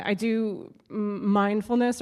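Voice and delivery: sarcastic edge on "mindfulness". Real, not acted. Comic admitting her mindfulness habit to the crowd, sarcastic. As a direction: say "mindfulness" as if you can't take it seriously. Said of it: "like, sarcastically".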